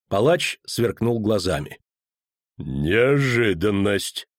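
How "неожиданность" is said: very slow, menacing mutter; ominous grumble. Acted. Executioner answering the kneeling poet, slow ominous grumble. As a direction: drag the word out darkly. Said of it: "буркнул он зловеще".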